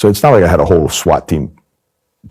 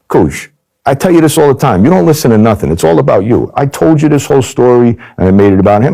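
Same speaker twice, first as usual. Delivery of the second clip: much higher, rising indignant rant; exasperated scolding; 8 semitones higher than usual. Retold or imitated. Agent turning the tables on the mobster: high indignant rant. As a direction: pile on the guilt like a nagging friend.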